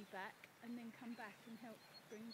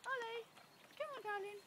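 coaxing call; 8 semitones higher than usual. Real, not acted. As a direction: call him, then coax him gently. Calling the horse across the field.

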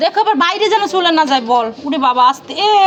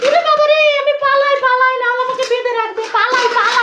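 higher, sing-song mock panic; mock fright; 4 semitones higher than usual. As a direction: ham up running away. Pretending to flee.

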